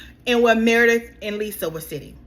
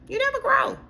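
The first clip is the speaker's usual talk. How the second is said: much higher emphatic repeat of "You never grow."; 14 semitones higher than usual. Shown as a demonstration. Repeating Mary's words to Meredith, much higher. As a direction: raise "You never grow." in pitch to hammer it home.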